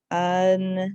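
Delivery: Until said as un-til; two syllables. Shown as a demonstration. Teacher models two syllables in Until. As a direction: split Until into two beats. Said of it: "Two syllables".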